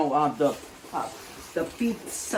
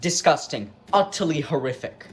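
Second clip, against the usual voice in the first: Gordon Ramsay; 4 semitones lower, faster than usual. Retold or imitated. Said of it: "prevent Gordon Ramsay from saying".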